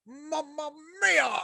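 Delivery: high, slow, wailing commentator cry; mock Italian wail; Morrow impression. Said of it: "Morrow will be like".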